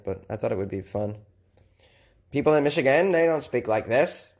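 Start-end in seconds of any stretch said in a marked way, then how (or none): 2.3-4.3 a hint of a Maine accent, slowing at the end. Host jokes that Michigan people lack this Maine accent. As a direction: keep the joke Maine accent going. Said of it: "I gave him a Maine accent".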